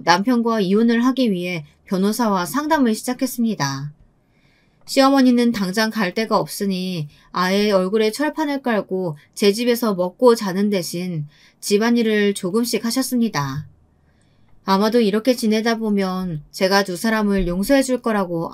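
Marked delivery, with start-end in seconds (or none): none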